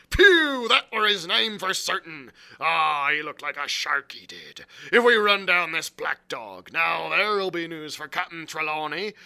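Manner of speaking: loud, high, excited ranting; quite excited. A narrator's reading. Silver ranting about catching Black Dog, quite excited. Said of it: "now quite excited".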